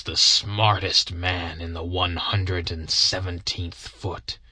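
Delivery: put-on a hunched veteran brooding over old wrongs; bitter old soldier. Henry Wood tells his story.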